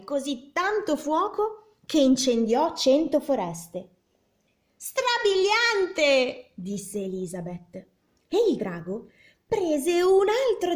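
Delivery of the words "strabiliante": high, very slow marvelling cry; amazed princess. A narrator's reading. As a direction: gush over the dragon's fire. Elizabeth cheers the dragon.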